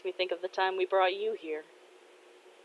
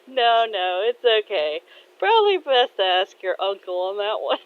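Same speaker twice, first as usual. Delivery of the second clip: good-humored reassurance; 2 semitones higher, 5 dB louder than usual. Acted. Father brushes off the apology.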